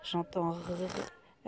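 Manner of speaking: R prolongé, très lent; étirer le son R lentement; sounding out R. Shown as a demonstration. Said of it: "Je sais que ça commence par le R". (son R étiré lentement)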